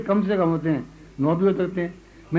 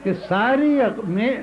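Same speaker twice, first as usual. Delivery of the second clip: poem recital. Acted. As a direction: savour each line for the audience. Recites second qita.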